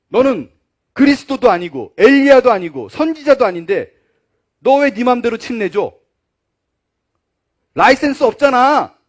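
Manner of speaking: scolding. Acted. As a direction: tell him off like an angry elder. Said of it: "라고 야단을 칩니다". (유대인들이 요한을 야단치는 큰 목소리)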